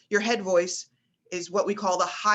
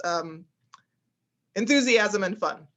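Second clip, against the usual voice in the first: ordinary delivery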